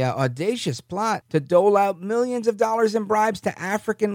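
emphatic read of a news report; news article read-aloud. Acted. Host reading a Yahoo News article to listeners, emphatic news read.

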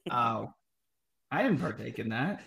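hollow, boxy trash can sound; talking into a trash can. Real, not acted. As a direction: voice echoing from inside a bin. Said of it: "Do I still sound like I'm in a trash can?".

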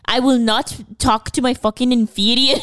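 mock Scottish queen, haughty accent; Saoirse Ronan. Mocking her Mary Queen of Scots role, Scottish accent. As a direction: put on a hammed-up Scottish accent. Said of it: "she's in Mary Queen of Scots".

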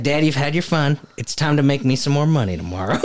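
hint of a Tennessee kid; little Tennessee boy. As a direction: lightly imitate a small boy's Tennessee twang. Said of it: "he sounds like a little Tennessee boy".

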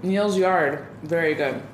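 talking through a mouthful of cheese; mouth full. Real, not acted. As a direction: speak around a bite. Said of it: "I'm talking with my mouth full".

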